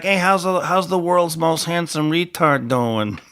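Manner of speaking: slow, drawn-out mock greeting from the teasing buddy. Host quoting his buddy's nickname, slow mocking drawl. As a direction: stretch it out like a ribbing friend.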